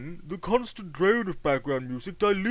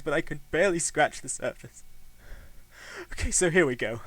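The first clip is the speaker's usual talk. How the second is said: lower, soft, faint with long pauses; dying man's message; 3 semitones lower, 3 dB quieter than usual. Acted. Dying Jamie records his last words, faint. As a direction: speak like a man with moments left.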